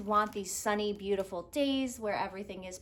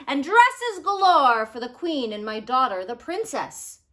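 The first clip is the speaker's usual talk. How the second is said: king's order; 3 semitones higher, 11 dB louder than usual. Acted. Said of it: "he ordered".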